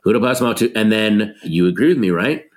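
lightly imitating a fed-up store clerk; mild clerk passing off the customer; retail clerk voice. Actor recalls retail habits, lightly voiced clerk. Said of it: "Anyone who's ever worked retail".

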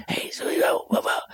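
whispered, soft imitation of an actor's delivery; Christopher Walken. Imitating how the actor starts out, whispering. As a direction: whisper it casually, barely voiced. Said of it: "he's kinda whispering the stuff".

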